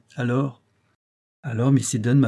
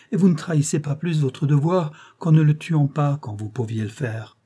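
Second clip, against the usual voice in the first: a touch of a desperate mother; 4 semitones higher, 3 dB louder than usual. Acted. Kneeling mother implores the detective.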